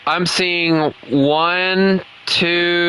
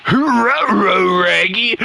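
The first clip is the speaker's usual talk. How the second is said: lightly raised cartoon dog voice; a better go at the cartoon dog; Scooby-Doo; slower than usual. Shown as a demonstration. Gamer retrying his cartoon dog impression, lightly raised. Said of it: "if I can do a little bit better, uh, gun, uh, Scooby-Doo impression".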